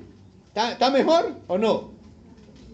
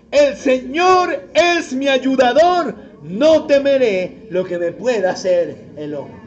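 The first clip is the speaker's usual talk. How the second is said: loud, slow declaration of faith; confident declaration; 2 semitones higher, 6 dB louder than usual. Shown as a demonstration. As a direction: proclaim it boldly, unafraid. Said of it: "Dígalo confiadamente". (proclamación fuerte y confiada)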